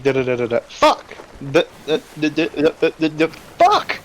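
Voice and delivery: da-da stutter bursting into a shout; stuttering then swearing. Retold or imitated. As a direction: stammer nonsense syllables, then yell fuck. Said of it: "You'd be like".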